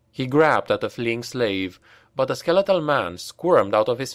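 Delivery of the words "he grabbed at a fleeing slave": ordinary delivery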